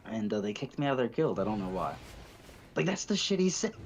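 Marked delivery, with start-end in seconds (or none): 2.8-3.9 high, loud laugh-through. Real, not acted. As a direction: crack up in disbelief. Laughs at friend's quote.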